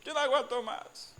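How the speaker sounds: loud, high despairing cry; hammed-up wail of despair; Moses despairing. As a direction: cry out like Moses at his limit. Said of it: "Moisés dijo".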